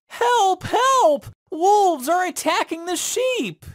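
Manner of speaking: high-pitched prankster's cry for help; yelling. Acted. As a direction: shout it like a fake alarm to fool everyone. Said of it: "The shepherd boy yelled".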